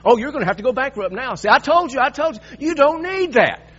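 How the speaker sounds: hammed-up gloating know-it-all; I-told-you-so critic. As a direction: rub the failure in their face.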